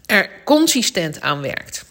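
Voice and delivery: just swallowed water, whispery; while sipping a drink. Real, not acted. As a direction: speak right after a sip. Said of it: "ik neem even een slokje water".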